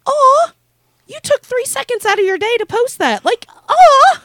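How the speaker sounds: high, squealing gushing aw. Retold or imitated. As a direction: coo over it like it's adorable. Gushing over a sweet tweet.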